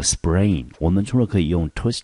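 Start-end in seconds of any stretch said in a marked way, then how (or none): 0.0-0.6 sprain said slowly and clearly for students to copy; slow clear demo. Shown as a demonstration. Teacher introducing a new word to students, slow and deliberate. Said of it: "这个字我们可以顺便记一下".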